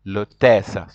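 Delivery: L'hôtesse pronounced "loh-tess", silent h; model pronunciation. Shown as a demonstration. French teacher has the class repeat L'hôtesse, model pronunciation. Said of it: "repeat after me".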